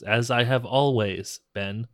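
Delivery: slow, deliberate mock-solemn reply; drawn-out imitation, lightly played; quoted catchphrase. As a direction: intone it like a movie ghost. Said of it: "And he says".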